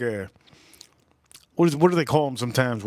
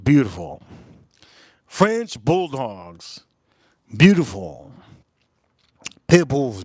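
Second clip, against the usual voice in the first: slow adoring list; slower than usual. Real, not acted. Listing dog breeds adoringly.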